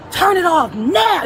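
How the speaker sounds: slow, drawn-out imitation of a command; retold stern order. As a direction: mimic an order, stretching each word. Retelling the angry man's order.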